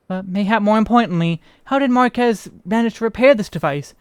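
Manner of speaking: lightly voiced archaic, inquisitive character; measured storybook formality with a questioning lilt; formal quest character. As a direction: read it as a curious, well-spoken townsperson. Reads quest dialogue in character.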